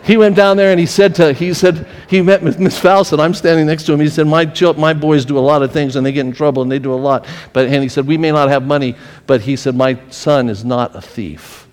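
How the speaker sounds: loud, forceful, a father standing up for his son; firm defence. Retold or imitated. Father confronting teacher.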